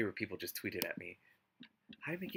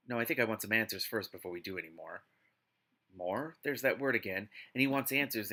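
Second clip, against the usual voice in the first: story narration; 3 semitones lower than usual. Acted. Reads the novel aloud.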